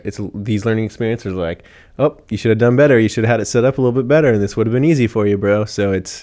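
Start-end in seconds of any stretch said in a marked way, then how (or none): 2.0-5.7 louder, quicker chiding of oneself; mock self-scolding. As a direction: playfully tell yourself off. Acting out self-reproach over mistakes.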